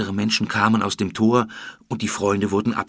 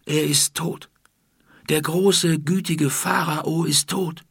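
slow, mournful and pitched up; grieving; 7 semitones higher, slower than usual. Acted. Palace servant Iti grieves over the dead pharaoh. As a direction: let the grief slow every word. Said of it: "In Itis Gesicht stand tiefe Trauer".

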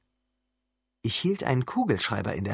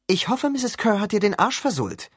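spiteful; 9 semitones higher, 3 dB louder than usual. Acted. Spiteful girl mocks Percy.

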